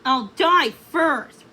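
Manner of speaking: slow, loud scowling mock reply; scowling echo. Rothbard turns her refusal on her, scowling. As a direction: spit her words back at her. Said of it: "Rothbard scowled".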